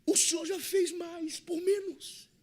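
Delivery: high, drawn-out protest to the Lord; disciples paraphrased. Retold or imitated.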